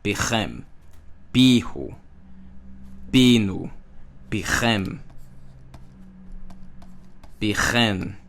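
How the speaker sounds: pichem, pihu, pinu said with final stress; stress shift. Shown as a demonstration. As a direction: lean on the ending of each form. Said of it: "The accent changes".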